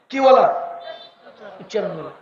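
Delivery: amused scoff at the odd word; mocking laugh. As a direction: repeat the word through a low, soft chuckle.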